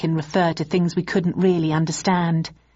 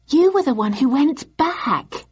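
higher, wide-eyed amazement; marvelling; 8 semitones higher than usual. Acted. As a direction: gush in awe. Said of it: "she marvelled".

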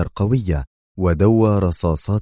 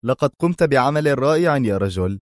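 higher, lightly voiced smiling agent; smiling praise; 7 semitones higher than usual. A narrator's reading. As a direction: praise him with a smile. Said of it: "يبتسم الآخر قائلا".

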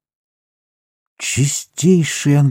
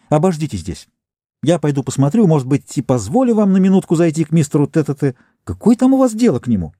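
haughty housewife; 5 semitones higher than usual. Acted. Bossy housewife makes them wait.

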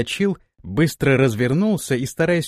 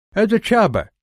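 steppe warrior voice; 8 semitones higher, 4 dB louder than usual. Acted. Erzai voice.

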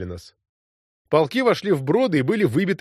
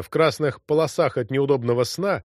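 plain reading voice

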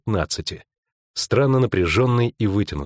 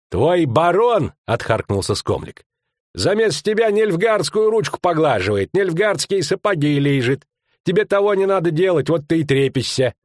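scornful jab; 8 semitones higher than usual. Acted. Skomlik sneering at Verk's baron, scornful jab. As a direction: spit the words at him.

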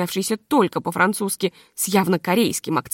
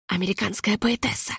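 softer, hushed aside; whisper; 5 dB quieter than usual. A narrator's reading. Senechka quietly introduces the guest to the hostess. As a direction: murmur it behind a hand. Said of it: "шепнул Сенечка".

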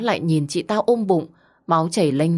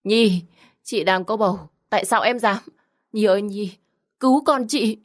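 hoarse plea; 4 semitones higher than usual. Acted. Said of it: "giọng chị khàn đặc vang lên".

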